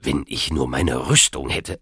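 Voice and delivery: irritated. A narrator's reading. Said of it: "sagte er gereizt".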